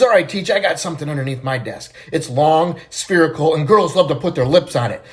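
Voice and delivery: loud, insistent acted complaint; upset schoolboy. Johnny to the teacher who won't call on him, upset. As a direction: demand attention, mildly worked up. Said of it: "little Johnny's all upset because the teacher".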